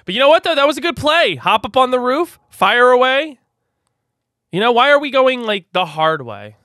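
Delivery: excited. Real, not acted. To friends about the roof, excited and loud. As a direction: sell the play like a win.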